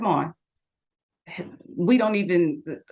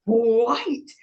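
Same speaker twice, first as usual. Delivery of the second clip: student teasing; 4 semitones higher than usual. Retold or imitated. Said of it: "He's like".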